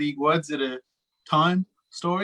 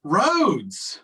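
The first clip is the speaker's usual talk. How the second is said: one word at a time, halting; each word dropped alone, long gaps; staccato; 5 semitones higher, much slower than usual. Acted. Word at a Time story game.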